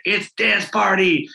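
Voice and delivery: slow, lifted mock announcement to the halls. Principal calling a dance party over the PA, announcing. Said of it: "get on a P A".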